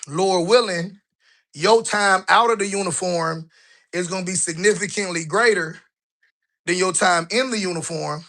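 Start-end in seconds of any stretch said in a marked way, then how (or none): 1.5-8.2 winded, puffing between words; out of breath. Real, not acted. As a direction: talk while short of breath from the stairs. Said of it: "So I'm already out of breath".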